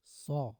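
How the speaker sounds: "सॉ" with AW as a long open aw; teacher sounding out "सॉ"; AW pronunciation. Shown as a demonstration. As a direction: model "सॉ" on its own, holding the aw vowel. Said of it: "ए डब्ल्यू का जो उच्चारण".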